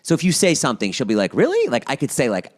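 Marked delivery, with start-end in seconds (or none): 1.3-1.7 very high-pitched credulous question; gullible Trisha. Retold or imitated. Friend imitating a literal woman hearing a joke, credulous. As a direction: imitate someone taking a joke literally, voice shooting up. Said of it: "she's very literal".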